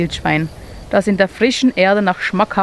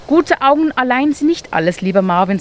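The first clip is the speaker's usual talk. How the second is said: put-on higher, kindly old owl; wise owl; 5 semitones higher than usual. Owl kindly corrects Marvin, higher and gentle. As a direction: gently correct the little mole.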